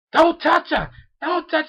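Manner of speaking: high-pitched, urgent panicked cry; mock panic. Retelling Sakura panicking at the hand, mock-panicked. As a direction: imitate someone panicking, voice jumping high. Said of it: "she started fucking panicking".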